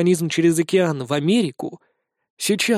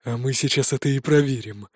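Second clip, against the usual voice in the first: lower, softer sinister tone; creepy menace; 4 semitones lower, 4 dB quieter than usual. Acted. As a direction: let a cold smile into it. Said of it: "Он жутко улыбнулся".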